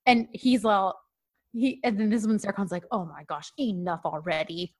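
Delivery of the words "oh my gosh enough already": low, soft retold exasperation; fed-up grumble. Host retells Serkan watching the lesson, fed-up grumble. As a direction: grumble it under your breath.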